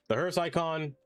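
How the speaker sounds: exasperated repeat. Real, not acted. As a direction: throw it up high in annoyance. Icon is bane to existence.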